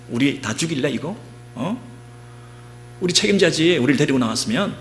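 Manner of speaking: high, increasingly loud angry accusation; defiant confrontation. Acted. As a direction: act out an angry crowd turning on their leader, pitch climbing to a shouted order. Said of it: "막 대들고 싸운 거예요".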